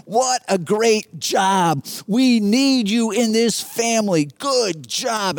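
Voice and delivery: put-on drawn-out, delighted praise for a child; loving praise. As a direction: cheer him on like a proud dad. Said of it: "overwhelmed with love for him".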